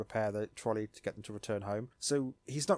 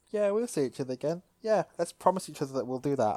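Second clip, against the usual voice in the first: high and sweet; lightly voiced kids promising; 4 semitones higher, 3 dB louder than usual. TK and Patamon promising to meet, high sweet voices. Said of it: "which is super cute".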